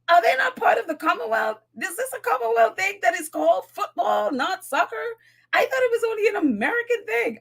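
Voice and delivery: high, incredulous mock questions; imitating shock. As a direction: act out your disbelief, voice rising. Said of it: "I had to be like".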